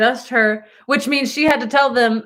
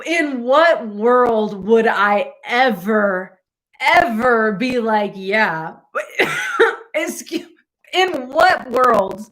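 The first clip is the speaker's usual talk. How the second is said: slow, drawn-out disbelief; incredulous; slower than usual. Real, not acted. Baffled by the girl's dinner invite, slow and incredulous. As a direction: stretch it out like it's absurd.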